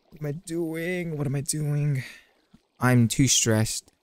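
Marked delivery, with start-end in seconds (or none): 0.1-2.0 soft, slow, drawn-out lament; dismayed. Real, not acted. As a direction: draw it out softly in helpless dismay. Dismay after dying in game.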